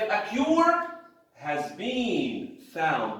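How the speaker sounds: A cure has been found drawn out slowly; slow, stressed reading. Shown as a demonstration. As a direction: read it very slowly to stress the action. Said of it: "That's what is important to us".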